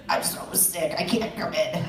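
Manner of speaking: badly faked sick call; faking sick. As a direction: put on a feeble excuse for calling in sick. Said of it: "when I call in sick, and I'm not really sick".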